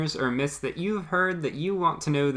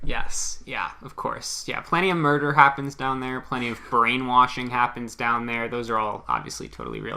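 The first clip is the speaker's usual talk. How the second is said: sarcastic. Pretend. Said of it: "No, I'm kidding, obviously".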